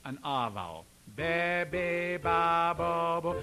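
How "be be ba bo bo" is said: sung syllables with hillbilly twang; hillbilly country sound. Shown as a demonstration. Teacher modelling shifted vowels, hillbilly country sound. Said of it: "a hillbilly country sort of sound".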